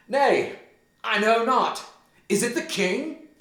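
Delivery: high, loud breathless-style urgency; agitated outburst. Acted. Hamlet unsure whom he killed, high agitated questioning. Hamlet just stabbed unseen man.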